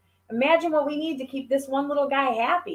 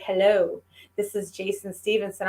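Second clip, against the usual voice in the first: Jason Stevenson voice; 3 semitones lower than usual. Retold or imitated. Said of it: "I love his voice".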